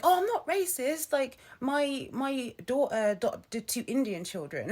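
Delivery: put-on indignant self-defence; mock defensive. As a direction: imitate a relative hotly denying it. Imitating granddad's defensive protest.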